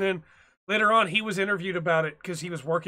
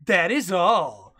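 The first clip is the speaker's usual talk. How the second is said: curt sign-off; 5 dB louder, much slower than usual. Retold or imitated. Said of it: "slid it back and was like".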